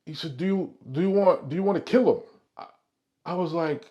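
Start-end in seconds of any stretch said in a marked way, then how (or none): 0.4-2.2 raised, louder Italian-American voice; acted wiseguy with Italian accent. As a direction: press the question in an Italian accent. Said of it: "I'm doing my Italian accent".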